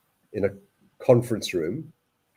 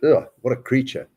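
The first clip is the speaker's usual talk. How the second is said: higher and louder, scornful; disgusted inner rant; 4 semitones higher, 3 dB louder than usual. Retold or imitated. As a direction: sneer at the man's look. Voicing his disgusted thought.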